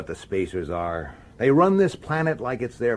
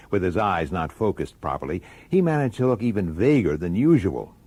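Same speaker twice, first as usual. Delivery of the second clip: story narration. A narrator's reading. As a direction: narrate it inward, like a private diary. First-person narration between scenes.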